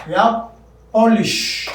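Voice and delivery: teacher marking the stressed first syllable. Shown as a demonstration. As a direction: punch PO in polish. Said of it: "Po, that is stressed".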